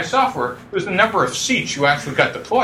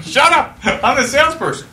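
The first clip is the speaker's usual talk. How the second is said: mock sharp hush; 8 semitones higher than usual. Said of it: "Gina's gone".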